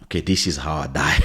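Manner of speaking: low, deadpan acceptance of doom; resigned. Retold or imitated. Retold resigned thought facing danger.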